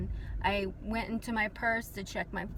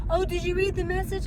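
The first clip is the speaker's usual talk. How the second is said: retold mother; 8 semitones higher, faster than usual. Mother's reply on the phone.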